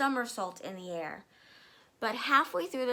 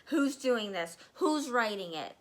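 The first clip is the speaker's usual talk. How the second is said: mild yell; 3 dB louder than usual. Acted. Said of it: "she yelled at nobody".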